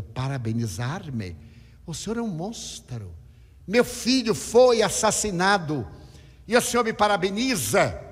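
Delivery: a grieving mother's outrage building to a shout; indignant outcry. Retold or imitated. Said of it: "ela gritou". (mãe enlutada indignada, crescendo até o grito)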